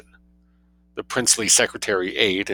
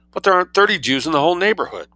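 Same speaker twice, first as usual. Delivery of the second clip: protesting; 9 semitones higher, 3 dB louder, faster than usual. A narrator's reading. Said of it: "protested Huddle".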